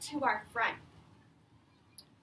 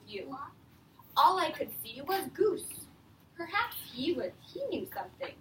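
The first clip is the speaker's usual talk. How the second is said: put-on reading to children. Teacher reading The Useful Moose to her class, lively read-aloud. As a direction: read it out to a class of young kids. Reads picture book to class.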